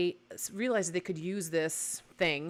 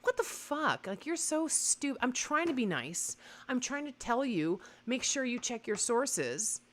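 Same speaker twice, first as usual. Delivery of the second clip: higher, fed-up scolding; exasperated rant; 5 semitones higher than usual. Retold or imitated. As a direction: let them have it, exasperated. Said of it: "Oh, I did a rant".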